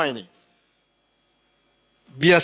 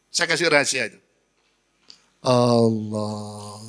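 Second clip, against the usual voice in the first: a heartfelt plea, pauses between phrases; intimate prayer; 5 semitones lower, slower than usual. Shown as a demonstration. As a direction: speak it as a personal confession to God. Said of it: "Coba ngomong gitu". (doa pribadi yang tulus)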